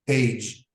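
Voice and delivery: page ending in a soft J sound. Shown as a demonstration. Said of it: "will be written as J".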